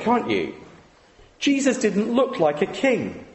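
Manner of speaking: ordinary delivery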